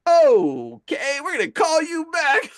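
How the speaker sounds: high, drawn-out uneasy okay; high, loud mock alarm; rattled backing off. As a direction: re-enact a nervous, hurried excuse to hang up. Acting out his rattled hasty exit.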